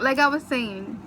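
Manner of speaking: trying to talk through giggles; laughing. Real, not acted. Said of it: "I can't stop laughing".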